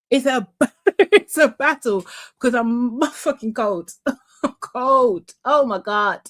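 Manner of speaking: complaint through laughter; laughing. Real, not acted. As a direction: laugh your way through the grumble. Laughing while complaining about cold.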